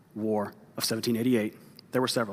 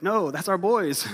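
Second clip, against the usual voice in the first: comic realization; 6 semitones higher, 5 dB louder, slower than usual. Retold or imitated. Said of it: "He's like".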